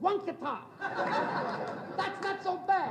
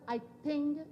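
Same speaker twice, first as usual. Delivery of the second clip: lightly put-on Italian accent of a father; halting, deliberate Italian-English as a papa; Italian father's accent; 3 dB quieter than usual. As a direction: imitate an immigrant Italian papa's accent. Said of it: "he says".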